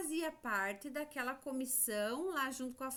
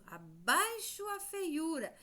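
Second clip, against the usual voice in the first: higher, slow storybook exclamation; spider's protest slogan; 5 semitones higher than usual. Acted. Teacher asking who said it, quoting a slow high slogan. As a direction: lightly proclaim it, stretched out high. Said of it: "Quem será que falou isso".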